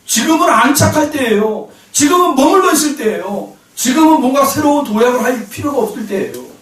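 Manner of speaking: high-pitched, mildly argumentative plea; protesting to God. Retold or imitated. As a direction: insist to God that this is not the time. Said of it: "하나님 앞에 반문하고 있더라는 거예요".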